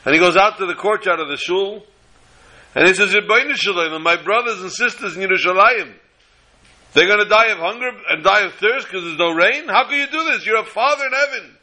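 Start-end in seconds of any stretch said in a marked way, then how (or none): 3.1-11.6 higher and higher, crying out to God; tearful plea. Retold or imitated. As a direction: beg heaven for rain through tears. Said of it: "And he started to cry".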